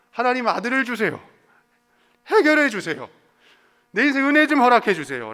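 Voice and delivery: high, loud begging prayer; mock desperate plea for a son; pleading prayer. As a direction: beg God loudly and plaintively.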